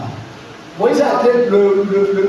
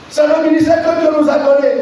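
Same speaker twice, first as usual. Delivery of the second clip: preaching shout; 4 semitones higher, faster than usual. Acted. Preaching at full force.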